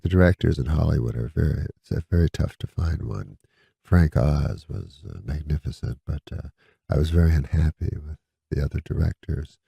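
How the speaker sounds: low, soft, unhurried imitation of Eddie Murphy; peaceful Eddie Murphy. Retelling Eddie Murphy's story about directing, lightly imitated peaceful tone. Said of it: "he goes, real peacefully".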